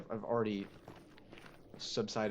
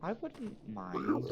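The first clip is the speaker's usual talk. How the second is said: sarcastic high drawl; 11 semitones higher, much slower than usual. Real, not acted.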